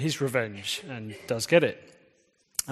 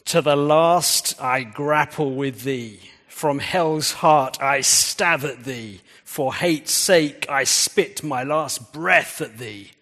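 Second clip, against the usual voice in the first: dramatic recitation; 4 dB louder, slower than usual. Acted. Preacher reads Ahab's dramatic quote.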